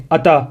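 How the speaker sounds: اتا with an extra vowel bounced after the t; wrong bounced ending. Shown as a demonstration. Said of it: "اس طرح نہیں کرنا".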